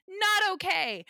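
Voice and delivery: high, slow laughing disbelief; stretched-out amused protest; laughing not okay. Real, not acted.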